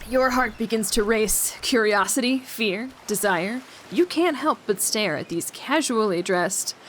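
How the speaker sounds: measured storyteller reading; story narration. Acted. Reading the game's scene to listeners, story narration. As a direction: narrate it like a story, lingering on phrase ends. Reads game narration aloud.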